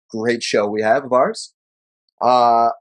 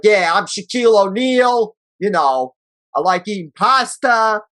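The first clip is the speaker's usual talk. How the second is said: higher put-on Italian accent, hammed up; Italian Shaq impression; 6 semitones higher than usual. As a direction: play Shaq as an Italian deli owner. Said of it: "What is that voice now".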